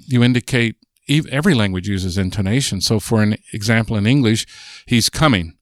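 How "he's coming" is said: "He's coming" falling at the end, on "coming"; statement tune. Shown as a demonstration. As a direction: say "He's coming" as a plain fact, dropping on "coming". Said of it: "is a statement".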